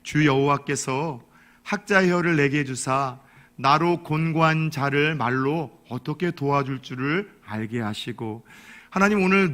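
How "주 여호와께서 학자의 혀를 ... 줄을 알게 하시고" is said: slow, solemn Bible recitation; 느리고 경건한 성경 낭독; scripture reading. Acted. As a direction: recite the verse slowly and reverently. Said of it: "하나님 말씀입니다".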